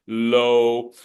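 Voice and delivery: low dropped down low; low pitch demo. Shown as a demonstration. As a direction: sink the voice on low. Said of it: "It's not the volume yet".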